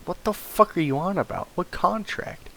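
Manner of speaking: disbelieving yelp at the news; incredulous. Retold or imitated.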